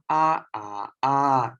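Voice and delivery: "Ah, ah, ah" in three distinct Burmese tone levels. Shown as a demonstration. Teacher demonstrating Burmese tones for class, clearly contrasted. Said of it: "we have three tone".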